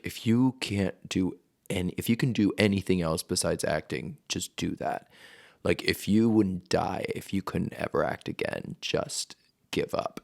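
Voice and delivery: teacher's warning. Retold or imitated. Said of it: "my acting teacher ... just be like".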